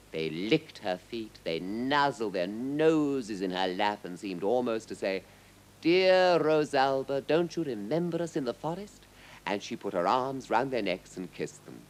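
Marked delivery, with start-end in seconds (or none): 5.8-9.0 lightly voiced affectionate beast, higher pitch; pleading lions. A narrator's reading. Lions greeting their old friend Rosalba, lightly pleading. Lions' imagined tender plea.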